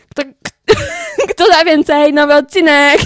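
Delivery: loud auctioneer call. Pretend. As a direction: shout it like an auctioneer. Auction cry for the episode.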